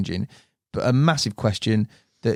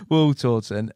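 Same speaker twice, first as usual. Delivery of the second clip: slow, laughing attempt at West Country; poor West Country accent; slower than usual. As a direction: have a half-hearted second go at West Country. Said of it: "stumbling trying to do the West Country".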